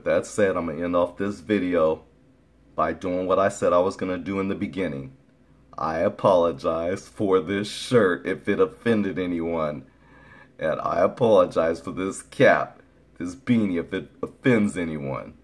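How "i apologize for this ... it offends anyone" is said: sarcastic apology. Pretend. Apologizing to viewers for a shirt and cap, sarcastically. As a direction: spell out an insincere apology. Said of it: "I'm being really sarcastic".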